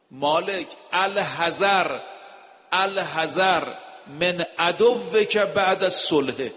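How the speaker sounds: slow, weighty Arabic recitation, each الحذر drawn out; slow solemn recitation. Acted. Preacher reading Imam Ali's letter to the congregation, slow solemn recitation. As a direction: intone the warning slowly, word by word. Reads Nahj al-Balagha letter aloud.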